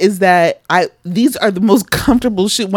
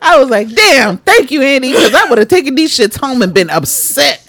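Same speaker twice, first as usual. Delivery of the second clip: laughing; 5 semitones higher, 3 dB louder than usual. Real, not acted. Laughing retelling thanks.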